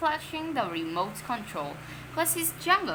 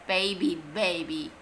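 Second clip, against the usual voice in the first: taunting; 5 semitones lower than usual. Acted. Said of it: "taunted Henry".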